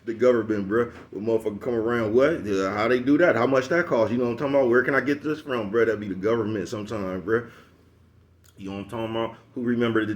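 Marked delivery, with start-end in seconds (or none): 2.1-5.8 higher and louder, mock-curious questioning; imitating a nosy decoy. Mocking a nosy decoy asking around, higher and louder. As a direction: play the suspicious stranger prying for details.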